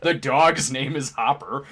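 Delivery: breaking into laughter at the end; amused laughing delivery. Real, not acted. Friend riffing on a movie's alternate universe, laughing. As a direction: say it through a building laugh.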